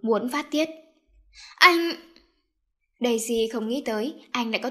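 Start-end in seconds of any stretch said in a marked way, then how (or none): 1.6-1.9 sharp, loud cry of protest; shocked cry. Acted. Daisy crying out at her brother in shock. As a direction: cry out his name in hurt disbelief.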